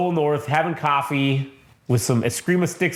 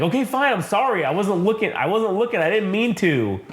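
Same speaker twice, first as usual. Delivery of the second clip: high, whining mock thug; whiny apology; 6 semitones higher than usual. Slapped thug apologising to Cole North, high and whiny. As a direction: beg off like a scared punk.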